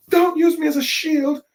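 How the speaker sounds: Usopp complaining. Retold or imitated. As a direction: yelp it out, offended at being a shield. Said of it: "Usopp's complaining".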